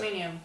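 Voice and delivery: Aluminium said al-yoo-MIN-ee-um, five syllables; British pronunciation. Shown as a demonstration. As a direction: stress Aluminium on MIN with the extra I. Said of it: "That's the proper pronunciation".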